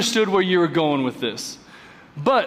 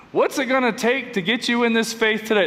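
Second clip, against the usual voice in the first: used car salesman voice; 3 semitones higher than usual. Shown as a demonstration. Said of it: "That's my used car salesman voice".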